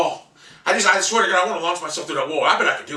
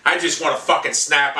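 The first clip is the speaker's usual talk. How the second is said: ordinary talk, nothing marked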